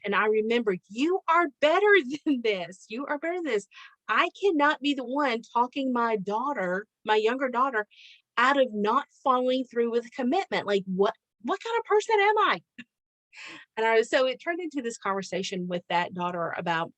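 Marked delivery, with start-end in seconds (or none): 0.9-12.6 higher-pitched retold self-reproach; self-admonishing. Mother admonished about talking daughter out of commitment, self-reproaching. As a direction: scold yourself in mild mock dismay, pitch jumping at the end. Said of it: "because I was admonished".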